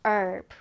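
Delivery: "herb" said as "erb", no H; "herb" starting straight on the vowel; silent-H herb. Shown as a demonstration. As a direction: drop the H in "herb", American style. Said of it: "미국식으로는 그냥".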